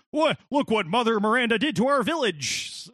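hammed-up American villager; American accent. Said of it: "most American accent".

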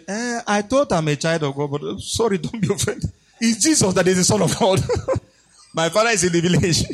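laughing apologetic backing down; half-laughing nervous retreat; sheepish laughing retreat. Retold or imitated. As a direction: chuckle while giving up your claim.

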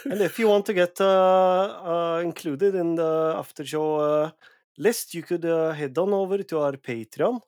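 put-on jokey Norwegian accent drifting Scottish. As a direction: play up a Norwegian accent for the plug. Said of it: "my Norwegian accent".

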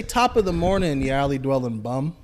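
lightly Irish prompt; feed the line with a hint of Irish; Irish accent. Shown as a demonstration. Friend feeding the Irish line with a hint of the accent.

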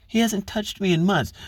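high, falsetto mock reply of a rebuffed man; mock hurt husband. Imitating husband backing off after rejection, high mock voice. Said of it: "He's like".

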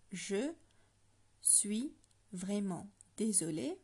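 "Je suis vraiment désolé" split and drawn out slowly. Shown as a demonstration. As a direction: break "Je suis vraiment désolé" into slow pieces. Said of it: "I'm going to break it down for you".

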